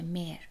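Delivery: "مر" with no h sound, just the vowel before r; silent h. Shown as a demonstration. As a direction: leave out the h in "مر". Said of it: "ها خونده نمیشه".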